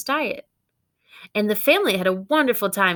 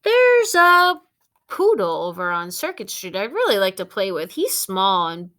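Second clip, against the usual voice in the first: chatty dog; 5 dB louder than usual. Acted. Dog chatters while others read.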